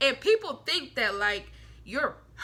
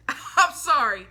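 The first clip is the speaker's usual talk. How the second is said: louder, slow, laughing through it; laughing apology; 7 dB louder, slower than usual. Real, not acted. Cracking herself up on the Aquarius rant, laughing apology.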